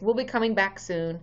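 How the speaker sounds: ordinary talk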